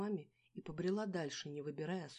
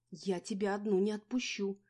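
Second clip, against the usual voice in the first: loud high panicked plea; frightened insistence; 4 semitones higher, 8 dB louder than usual. A narrator's reading. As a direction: clutch and beg. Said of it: "в панике хватая меня".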